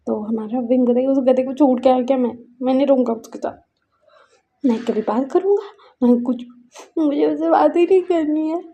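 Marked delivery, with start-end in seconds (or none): 1.1-8.6 a touch of tearful sulking; light crying. Acted. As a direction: sulk through mild tears. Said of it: "बोल के वो रो रहा था". (हल्का रोता हुआ रूठना)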